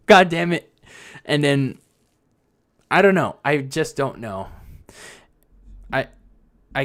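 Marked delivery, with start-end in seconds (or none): 0.1-0.7 repeated through a laugh. Retold or imitated. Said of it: "Sasha's like".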